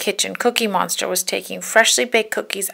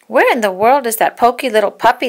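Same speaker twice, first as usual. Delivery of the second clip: fast, louder puzzled puppies; fast louder puppy voices; puppies asking; 3 semitones higher, 6 dB louder, faster than usual. Acted. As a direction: ask quickly and louder.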